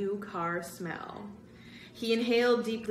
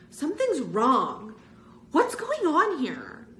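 higher, louder, slow alarm; alarmed cry; 9 semitones higher, 8 dB louder, slower than usual. Acted. Greg staring at the impossible photo, alarmed cry. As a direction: cry out as the photo turns wrong. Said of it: "Greg cried".

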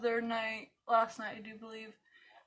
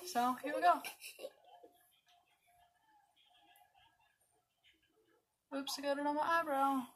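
talking with mouth held open; applying mascara; 3 semitones higher, 4 dB quieter than usual. Real, not acted. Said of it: "Don't mind my mascara face".

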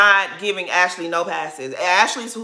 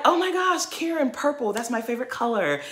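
high, airy mock Valley Girl, rushing the last line; mocking an eager-to-please Valley Girl, voice up high; fake Valley Girl accent; 5 semitones higher, 5 dB quieter than usual. Vlogger mocking neca as a fake agreeable Valley Girl, high mock Valley Girl accent. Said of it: "use this fake Valley Girl accent".

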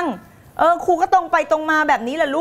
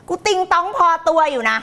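higher, playful mock boast; high comic boast; 4 semitones higher than usual. Coach owns up to being dotty, high comic boast. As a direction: pitch it up for the joke. Repeats the joke boast, then laughs.

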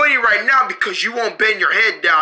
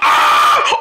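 startled scream; 5 dB louder than usual. Acted. Knocked-out patient jolted awake.

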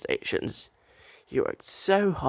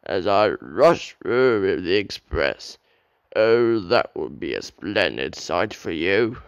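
boastful; 3 semitones lower than usual. Acted. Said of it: "he boasted".

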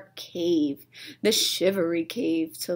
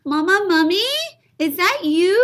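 put-on high little-kid plea; squeaky begging little mummy; pleading child; 11 semitones higher, 8 dB louder than usual. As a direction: beg in a much higher child voice. Baby mummy calling out.

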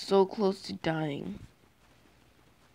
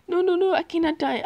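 man down shout; 10 semitones higher, 8 dB louder, faster than usual. Real, not acted. Gamer about to die.

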